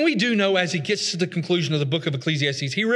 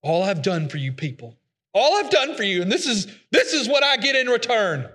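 mock martyr whine; 2 semitones higher than usual. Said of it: "Any of us ever talked like that?".

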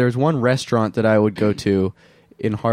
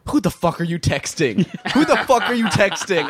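high-pitched imitation of a pestering stranger; mock accosting someone, pitched way up, amused; retold rowdy heckle; 9 semitones higher than usual. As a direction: imitate a nosy loudmouth, voice raised high. Acting out rowdy train stranger's words.

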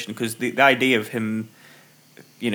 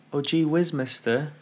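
put-on wholesome 1950s kid; 4 semitones higher than usual. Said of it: "something like that".

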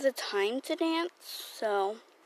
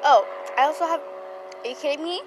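angry shout; 8 dB louder than usual. Real, not acted. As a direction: snap at the noisy plane overhead. Yelling at a loud plane.

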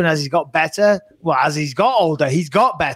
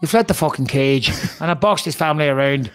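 lightly put-on Northern Irish accent; trash-talk in a rough attempt at Northern Irish. Host reads McGregor's tweet, in a makeshift Northern Irish accent. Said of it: "it's the only Irish accent that I can do".

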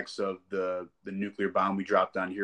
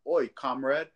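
mock British accent; 4 semitones higher, 3 dB louder, slower than usual. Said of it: "No one talks like this".

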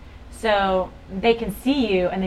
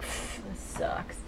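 unimpressed; 10 dB quieter, much slower than usual. Retold or imitated. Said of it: "at first I was like".

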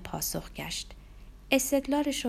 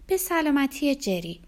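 slow, high and louder; raised toast; 7 semitones higher, 6 dB louder than usual. Acted. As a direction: proclaim a toast to the table.

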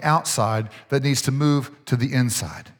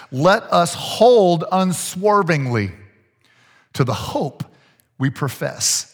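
slow, measured Bible reading; scripture reading; slower than usual. Real, not acted. Preacher reading Hebrews to the congregation, slow scripture reading. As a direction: read the verse out slowly and deliberately.

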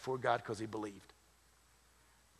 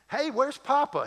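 high-pitched mock call for Papa; 10 semitones higher, 4 dB louder than usual. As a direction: call out high, as if looking for Dad. Acts out calling for new father.

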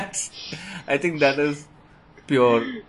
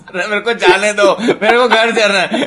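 mock pleading; 8 semitones higher, 8 dB louder, much faster than usual. Pleading mock plea to leave.

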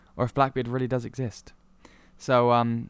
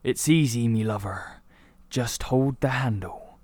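pirate voice. Acted. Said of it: "And he goes".

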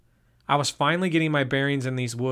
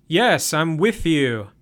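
slow, louder, mock tough-guy; trying to sound macho; 3 semitones higher, 6 dB louder, slower than usual. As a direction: puff up to match your friend. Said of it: "trying to sound half as macho".

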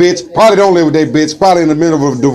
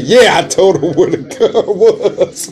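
slow smug reply; 2 semitones higher, slower than usual. Retold or imitated. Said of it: "She like".

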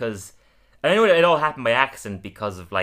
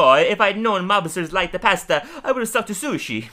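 joking quip; 9 semitones higher, 5 dB louder than usual. Retold or imitated. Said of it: "I was like".

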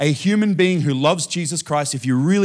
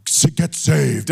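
slow mock-thundering evangelist; Reinhard Bonnke; 3 dB louder, much slower than usual. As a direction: lightly imitate a thunderous altar call. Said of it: "sounds like the whole room thunders".

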